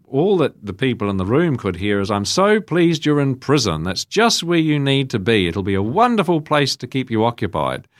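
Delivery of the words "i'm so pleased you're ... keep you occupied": higher, louder voice of a delighted mother; mother on the phone. Retold or imitated. Mother talking to the priest from a hospital room, delighted and loud. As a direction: imitate a mother gushing loudly down the phone. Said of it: "she was talking on the phone to me".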